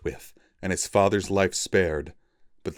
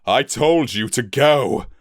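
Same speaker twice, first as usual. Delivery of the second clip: higher, louder, slow scolding; father scolding his son, angrily; angry bark; 6 semitones higher, 6 dB louder than usual. Acted. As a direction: scold him for staying. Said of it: "he barked".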